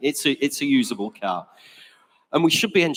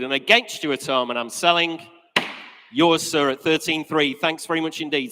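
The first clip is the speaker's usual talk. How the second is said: steady rhythmic auction patter, stating each figure; auctioneer's bid calling. Acted. Auctioneer calling bids to the room and internet, brisk patter. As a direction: run the bidding like a practiced auctioneer.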